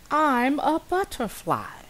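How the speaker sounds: high, slow airy butterfly voice; breathed. Acted. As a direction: breathe it out lightly. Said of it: "she breathed".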